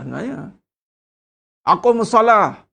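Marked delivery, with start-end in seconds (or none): 1.7-2.6 firm, loud plain call to prayer; blunt command. Shown as a demonstration. Preacher showing the plain way, in a blunt command. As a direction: say it straight, no frills. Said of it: "Ha, tu je".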